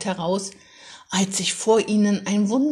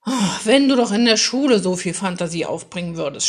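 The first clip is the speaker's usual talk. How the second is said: fast, louder weary complaint; a father groaning at his son, louder and fast; exasperated groan; 5 dB louder, faster than usual. Acted. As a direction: sigh it out, fed up. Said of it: "stöhnte der Vater".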